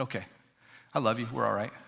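put-on soft, low reassurance to a child; quietly forgive her as a loving dad; lightly acted tender reconciliation, hushed and low; gracious, loving dad. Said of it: "graciously and lovingly be her dad".

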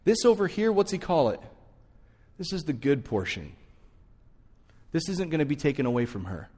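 gentle correction. Retold or imitated. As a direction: ease her down kindly, like calming a worried friend. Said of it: "the Lord just slows her down and goes".

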